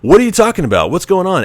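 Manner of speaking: high, urgent pleading; a rush of alarmed pleading, pitched high; panicked Marty. Retold or imitated. Marty begging Doc to explain, high and urgent.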